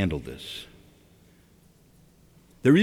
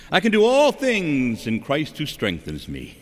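higher, lofty mock recitation; nicely recited slogan; 5 semitones higher than usual. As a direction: recite scripture like a nice slogan. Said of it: "how we can talk so nicely".

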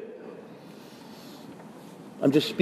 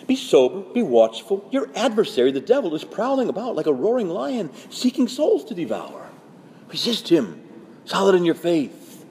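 high, emphatic proclamation; urgent scripture warning; 5 semitones higher than usual. Acted. Peter warning of the devil prowling, proclaimed urgently. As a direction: sound the alarm, phrase by phrase.

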